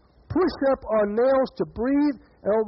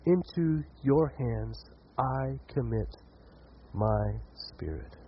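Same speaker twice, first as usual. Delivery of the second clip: fading dying breath; 8 semitones lower, 7 dB quieter, much slower than usual. Acted. Jesus's last breath.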